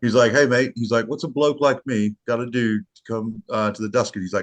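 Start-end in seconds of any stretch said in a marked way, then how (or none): 0.3-0.7 higher, louder impression of an Aussie mate; jokey Australian accent impression. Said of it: "my Australian accent". 1.1-4.2 put-on a light Australian accent, slightly higher; mild Australian accent impression. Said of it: "my Australian accent".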